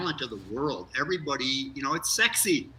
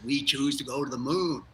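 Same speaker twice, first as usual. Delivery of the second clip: put-on a light Boston accent, quoting Kennedy's moon speech; hint of Boston vowels as in Kennedy's moon speech. Astronaut quoting Kennedy's moon speech to the anchor, light Boston accent. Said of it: "in his Boston accent".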